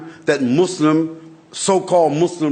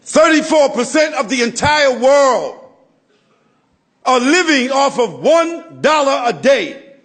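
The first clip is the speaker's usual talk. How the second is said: preaching at full force; 6 semitones higher than usual. Acted. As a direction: rouse the congregation with the numbers.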